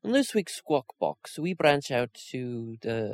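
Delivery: put-on a weak try at a singer's British accent. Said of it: "he's not Scottish".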